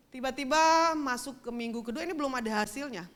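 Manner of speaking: ordinary talk, nothing marked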